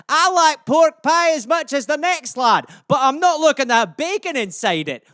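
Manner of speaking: exasperated Scot pressing the point; Scottish accent. Acted. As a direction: rattle off insults as an animated Scot. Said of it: "some Scottish euphemisms for you".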